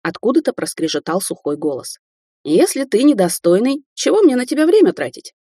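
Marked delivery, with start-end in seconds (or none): 2.4-5.3 put-on high, crabby old woman's voice; crotchety old lady, higher; old crone. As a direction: snap it out like a grumpy granny. Old woman scolds Andrey.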